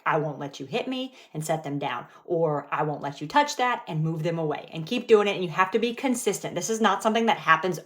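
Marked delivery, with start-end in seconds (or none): 0.1-1.1 calm, firm, lowered voice on I won't let you hit me. Shown as a demonstration. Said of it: "with that calm tone". 2.7-3.8 calm, firm boundary voice; steady, no raised voice. Shown as a demonstration. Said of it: "with that calm tone".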